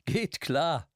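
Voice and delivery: chirpy agreement; lightly voiced barmaid. A narrator's reading. Barmaid answering the old man, lightly voiced and bright.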